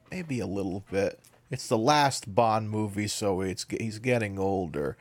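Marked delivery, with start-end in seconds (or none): none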